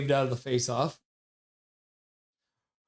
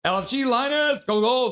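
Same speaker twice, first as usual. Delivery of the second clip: higher, louder goal cheer; hyped cheer; 8 semitones higher, 5 dB louder than usual. Retold or imitated. Streamer reading chat, excited goal cheer. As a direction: celebrate like the puck just went in. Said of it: "says Turn Lizard".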